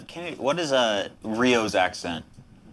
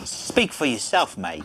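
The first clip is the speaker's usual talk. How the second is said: mock Australian accent; 2 semitones higher than usual. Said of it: "That's Australian".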